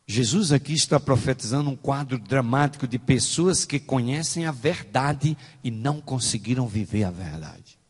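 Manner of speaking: usual speaking voice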